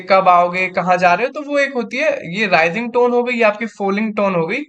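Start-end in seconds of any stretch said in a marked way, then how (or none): 0.0-1.3 calm demo. Shown as a demonstration. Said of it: "वही चीज बोलना आराम से".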